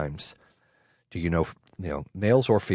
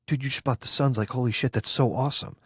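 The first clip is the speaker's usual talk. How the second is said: higher-pitched excited congratulations to a buddy; 5 semitones higher, faster than usual. Retold or imitated. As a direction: hype up your friend's big win, retold. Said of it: "I'm excited for you".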